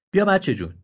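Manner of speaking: gentle coaxing, pitched high; kindly old donkey. Acted. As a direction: coax the little one over kindly. Noble donkey invites the deer. (الاغ نجیب، مهربان و دلجو)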